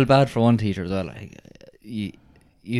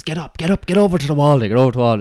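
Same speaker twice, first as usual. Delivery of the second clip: raised, sharp teacher command; mock angry order; 5 semitones higher than usual. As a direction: bark it at the pupil. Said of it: "and he goes".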